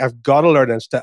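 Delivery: ordinary delivery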